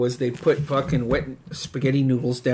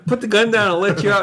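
mock negotiating; 7 semitones higher, faster than usual. Retold negotiation with armed friend.

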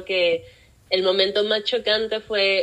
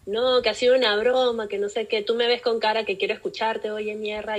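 retold insults; 3 semitones higher than usual. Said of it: "comencé a insultarlo".

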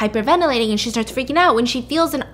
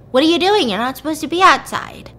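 higher, louder mock telling-off; retold scolding; 5 semitones higher, 4 dB louder than usual. Ethan catches her outside on the front steps, retold scolding. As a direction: act out a startled scolding from the doorstep.

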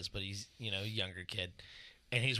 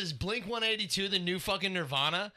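high indignant question; mock outrage with rising pitch; indignant mock rant at the kid; retold outrage; 8 semitones higher, 4 dB louder than usual.

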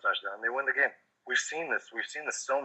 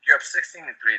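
exasperated yell; 6 semitones higher than usual. Retold or imitated. Yelling at the Saints coach.

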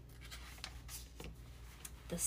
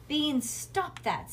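slow, higher-pitched warning; scolding mother; 5 semitones higher, much slower than usual. A narrator's reading. Mother tells Bean off for face-pulling, slow scolding. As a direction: draw it out as a parent's reprimand.

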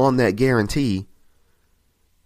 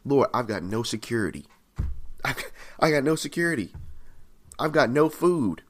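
needy, mildly pleading lament; Jeremiah; 2 semitones higher than usual. Acted. Preacher voices Jeremiah telling the Lord his needs, plaintive. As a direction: list each lack to God with rising distress, understated. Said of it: "Jeremiah's expressing his need".

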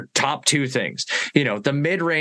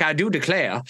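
put-on Southern accent; 2 semitones higher than usual. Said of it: "Gotta work on my Southern accent".

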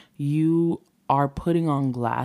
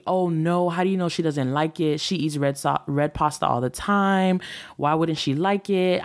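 retold argument, defensive pushback to the husband; bickering; 2 semitones higher than usual. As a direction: snap back defensively at the husband, half-acted. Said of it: "I'm bickering, I'm arguing".

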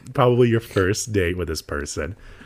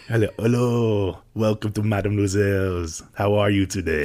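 restaurant host greeting. Pretend. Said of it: "I'll be like".

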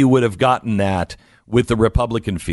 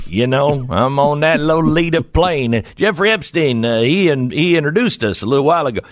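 joking to the nosy woman, a lightly hammed-up creep; creepy joking boast; 4 semitones higher than usual. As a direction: play the creep for a laugh, a hint of a leer. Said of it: "it would be really funny if I said".

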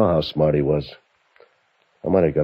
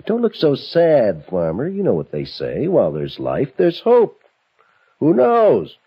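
taunting, with high swooping peaks; singsong needling of a captive; mock consolation; 3 semitones higher than usual. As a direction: cheer him up mockingly. Captor taunts tied-up farmer.

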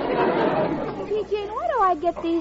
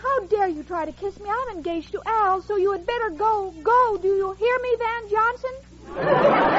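talking in her sleep. Acted. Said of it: "She's talking in her sleep".

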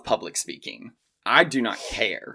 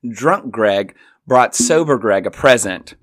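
louder, slow proclamation to the room; proclaiming his gift to the whole house; grand announcement; 6 dB louder, slower than usual. Retold or imitated. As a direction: announce it like a toast. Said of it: "I announce to the crowd".

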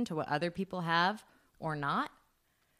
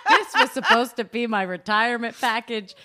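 put-on indignant old cat; 8 dB louder than usual. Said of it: "Lady was like".

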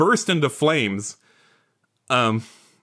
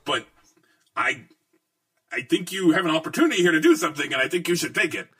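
put-on Brooklyn accent; 5 semitones higher, faster than usual. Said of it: "has a Brooklyn accent".

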